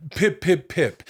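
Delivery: high prim British "pip, pip, pip"; lightly mock-posh catchphrase; posh wrestler catchphrase. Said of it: "his catchphrase was".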